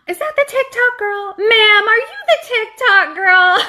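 high, eager call across the street; excited calling out. Retold or imitated. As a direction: call out like a thrilled fan.

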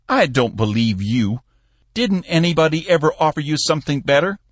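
put-on an old boss who can't believe it; old Cappy. A narrator's reading. Cappy doubting Bill's story, lightly voiced old man.

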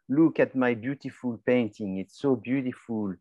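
lightly put-on French accent; mock French-accented sales pitch. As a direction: sell it with a French painter's accent. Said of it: "like a French accent for a painting".

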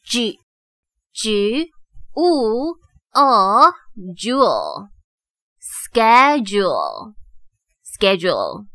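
"schedule" built slowly from a "j" sound, "oo", then "jewel". Shown as a demonstration. Teacher shows the special d sound in schedule, sounding out. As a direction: slowly piece "jewel" together, then say "schedule" whole twice. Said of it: "有特殊的发音".

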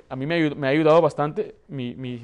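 ordinary talk

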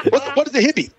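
mock-baffled rapper impression. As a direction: imitate a rapper milking a stand-up punchline. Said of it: "like he was doing stand-up".

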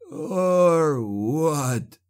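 defiant sorcerer. Acted. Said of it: "Clabe challenged".

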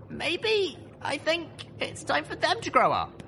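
put-on slow, high young mare voice; said slowly. A narrator's reading. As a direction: slowly, still finding the words. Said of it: "I said slowly".

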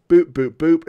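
spoken blips for quick key presses; imitated keystroke boops. Showing how quick Vim edits are, playful boops.

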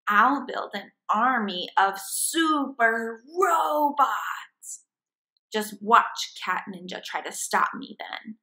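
hammy evil plan speech; gloating hamster villain. Acted. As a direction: gloat over the clever scheme.

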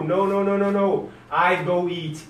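ordinary talk, nothing marked

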